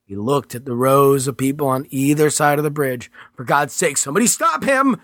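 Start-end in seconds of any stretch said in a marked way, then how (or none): 3.4-5.0 shouting for help. Acted. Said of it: "he shouted".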